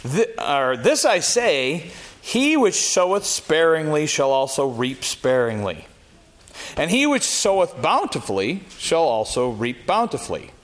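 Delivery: measured King James reading, rising on key phrases; scripture reading. Acted. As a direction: read the verses like a preacher from the pulpit. Reads scripture aloud.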